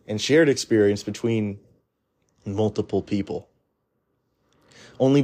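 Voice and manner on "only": voice crack. Real, not acted. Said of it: "Sorry for that voice crack".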